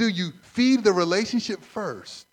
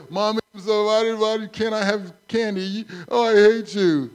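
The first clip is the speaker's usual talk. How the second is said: put-on whiny child; 3 semitones higher, 4 dB louder than usual. Child whining at mother.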